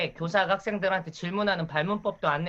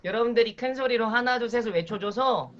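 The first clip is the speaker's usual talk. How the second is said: kindergarten teacher voice; 3 semitones higher than usual. Shown as a demonstration. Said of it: "유아라고 가정하고 제가 수업을 진행해 볼 테니까".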